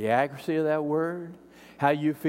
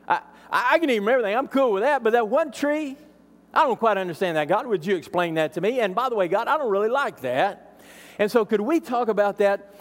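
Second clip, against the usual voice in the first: mock whiny Adam; 4 semitones higher than usual. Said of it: "He didn't say".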